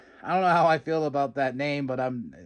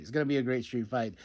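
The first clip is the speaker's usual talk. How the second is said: softer echo; 3 semitones lower, 7 dB quieter, faster than usual. Retold or imitated. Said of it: "And I'm like".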